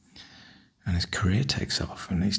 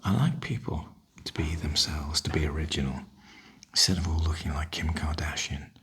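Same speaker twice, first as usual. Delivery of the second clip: soft whisper. Real, not acted. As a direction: whisper it as a gentle opinion. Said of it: "this is a softly spoken video".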